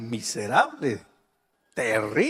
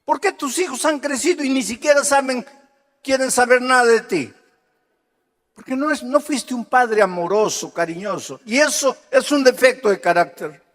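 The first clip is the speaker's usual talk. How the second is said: raised, insistent preacher voice; forceful preaching; 10 semitones higher, 6 dB louder than usual. Real, not acted. Preacher confronting a father about his children, forceful. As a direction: press the congregation hard.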